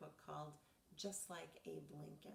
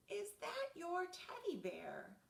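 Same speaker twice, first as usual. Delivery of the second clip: asked again louder and higher; louder, higher repeat; 13 semitones higher, 6 dB louder, slower than usual. Acted. Narrator repeats question to sleepy Reggie, louder. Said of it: "I said".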